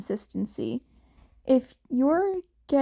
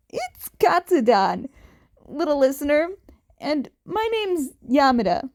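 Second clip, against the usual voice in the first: louder, bright host voice; cheerful Yamada; 3 semitones higher, 5 dB louder than usual. A narrator's reading. Radio host greeting the kit, louder and cheerful. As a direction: introduce yourself grandly to the little listener.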